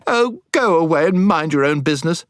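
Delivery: high-pitched outburst of temper; fly at him, pitched well up; sudden temper. A narrator's reading. Crying girl snaps at boy who interrupted, angry. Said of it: "Jill suddenly flew into a temper".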